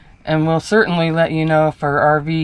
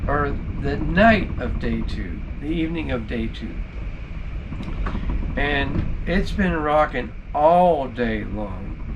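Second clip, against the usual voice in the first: hushed night voice; 7 dB quieter than usual. Real, not acted. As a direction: keep it down, people sleeping. Night video, hushed so others sleep.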